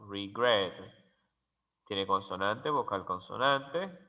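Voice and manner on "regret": regret with the weight on GRET; stress on second syllable. Shown as a demonstration. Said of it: "tiene énfasis de sonido en la segunda sílaba".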